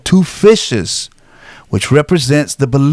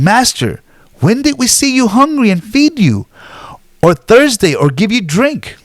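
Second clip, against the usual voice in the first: voicing the righteous; 6 semitones higher than usual. Righteous answer the king.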